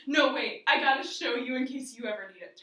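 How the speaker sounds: loud, eager interruption; retold eager insistence. Older sister stopping sister from bed, loud and eager. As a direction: cut in loudly, insisting.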